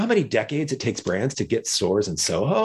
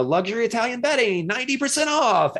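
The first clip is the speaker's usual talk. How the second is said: street hawker's call; 12 semitones higher than usual. Retold or imitated. Sign guy on the corner advertising to passers-by, high hawker's call. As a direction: sing out the bargain like a sign-holder.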